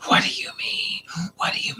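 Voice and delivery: breathy, choked repeat; mock furious boyfriend; imitated fuming. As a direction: sputter it under your breath. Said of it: "he's just going off".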